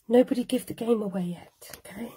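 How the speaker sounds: a conspiratorial whisper to the viewers; playful whisper. Acted. Crafter hushing her live viewers about the surprise, whispered. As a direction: whisper it like you're sharing a secret.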